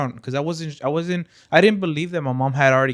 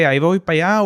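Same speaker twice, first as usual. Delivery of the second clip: louder, higher retold shout back; quick raised-voice reply, imitated; calling back; 5 semitones higher, 10 dB louder than usual. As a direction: call out as if to another room. Acted reply called out to mom.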